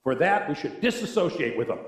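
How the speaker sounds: mock-judgmental, tongue in cheek; sarcastic. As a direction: say it sarcastically, drawing out the insult. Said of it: "you know I'm being sarcastic".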